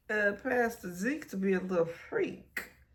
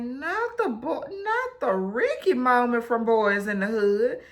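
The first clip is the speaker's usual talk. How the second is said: high, loud panicked laughing cry; half laughing, half panicking; dread; 5 semitones higher, 6 dB louder than usual. Real, not acted. Fearing the drive-by scene, high panicked cry.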